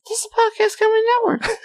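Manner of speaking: high, hammy network announcer. Acted. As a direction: boom it out like a promo. Announcer sign-off.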